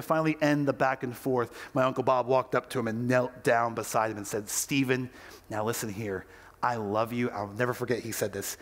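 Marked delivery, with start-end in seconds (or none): 4.5-7.3 tender reassurance. Retold or imitated. Father kneeling beside his son, quiet tender reassurance.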